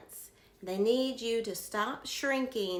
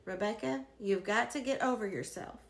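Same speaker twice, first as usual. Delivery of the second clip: calm, measured. Retold or imitated. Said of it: "looked at me very calmly and said".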